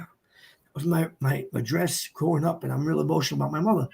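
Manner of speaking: retold choked-up confession, low and soft. Explaining his mother's old address to the guy, retold choked up. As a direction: falter softly as if recalling being overcome. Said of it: "I start getting choked up".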